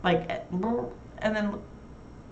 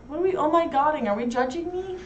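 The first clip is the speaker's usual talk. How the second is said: mock offended; 9 semitones higher than usual. Teasing mock offense at Jackie.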